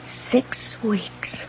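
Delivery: breathless, voiceless question; stunned whisper. Acted. On the phone to the paper, a shocked whisper. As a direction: let the shock drain the voice away. Alone, realising the danger.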